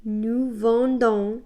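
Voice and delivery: Nous vendons said slowly and clearly; teacher-paced nous vendons; careful French drill; slow model form. Shown as a demonstration. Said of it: "new form".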